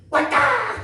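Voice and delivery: high, loud, laughing cry of arrival; excited shout. Retold or imitated. Waiting patients shout to each other as the preacher arrives, high and loud. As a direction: call out that he's finally here.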